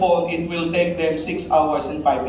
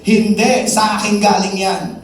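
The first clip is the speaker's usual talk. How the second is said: protesting atheist; 5 semitones higher, 5 dB louder than usual. Acted.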